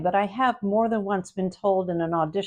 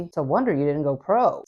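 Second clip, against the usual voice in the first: teasing alt; 4 semitones lower than usual. Shown as a demonstration. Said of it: "Second alt could be".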